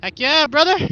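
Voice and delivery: loud, high hype shout; excited cheer. Real, not acted. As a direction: whoop it out like a biker. Cheering out on the ride.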